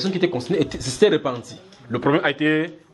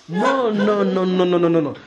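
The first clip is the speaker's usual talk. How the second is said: emphatic no; 4 semitones higher, 3 dB louder than usual. Real, not acted. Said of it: "Il n'a pas dit ça".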